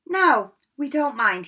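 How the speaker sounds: stunned schoolboy comeback; stunned retort. A narrator's reading. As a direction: call after her, baffled. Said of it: "Ron stared after her".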